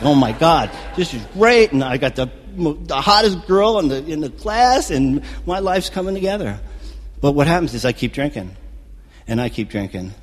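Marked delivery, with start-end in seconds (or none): 0.0-6.6 loud, rising excitement; elated. Retold or imitated. Drinker thrilled to have the hottest girl, elated. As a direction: build into higher, louder elation. Drunk elation at making out.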